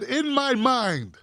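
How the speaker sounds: slow, drawn-out mocking repeat; mocked quote. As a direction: stretch the quoted words to ridicule them. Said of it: "He said".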